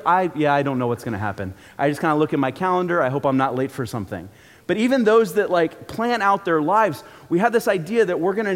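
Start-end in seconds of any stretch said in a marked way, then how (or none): 0.0-4.3 lower, vague mock shrug of a voice; clueless drifter. To the congregation, mimicking someone unplanned in a lower, vague tone. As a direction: mumble it low like you never checked the plan. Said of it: "Some of you are like".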